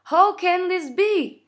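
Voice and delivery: put-on slow, high, loud English accent. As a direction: declaim it in showy, drawn-out English. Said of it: "j'ai un superbe accent anglais".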